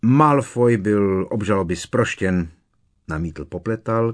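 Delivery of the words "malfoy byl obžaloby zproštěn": louder, piqued protest; offended objection. A narrator's reading. Minister defending an accused family, offended. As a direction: object as if personally slighted. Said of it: "kterého se to očividně dotklo".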